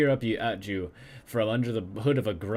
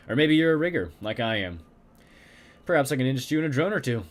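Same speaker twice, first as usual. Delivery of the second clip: put-on German accent; 2 semitones higher, faster than usual. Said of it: "heavily accented German".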